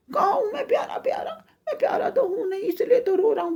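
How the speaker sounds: high-pitched mock crying; tearful wailing. Crying little tree answers the forest goddess, tearful wail. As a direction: whine it out like a sobbing child. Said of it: "तो वो और रोने लग गया".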